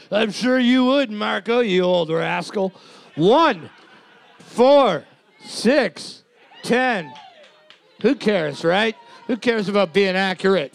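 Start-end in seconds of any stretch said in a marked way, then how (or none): 3.1-7.1 giggling through the numbers; laughing. Real, not acted. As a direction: laugh while reading scores. Reading scores while laughing.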